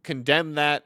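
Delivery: loud mock ruling; slow, emphatic pretend verdict; girlfriend playing judge. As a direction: declare it like a judge with a gavel. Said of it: "hit her gavel and she said".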